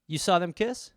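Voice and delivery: a stunned judge cutting in; judge interrupting. Retold or imitated. Judge stopping the witness mid-story, stunned whoas. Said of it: "Judge Greg Mathers will go".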